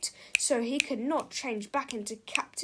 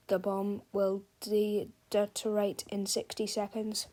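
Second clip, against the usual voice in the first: computer voice; 3 semitones lower than usual. Acted. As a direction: read it like a robot. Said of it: "A computerized voice".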